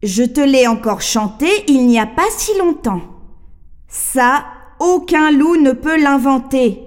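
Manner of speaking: changed voice. Acted. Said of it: "Même sa voix a changé".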